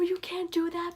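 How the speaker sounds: a hushed plea to the character; urgent whisper. Retold or imitated. Pleading with Jason in retelling.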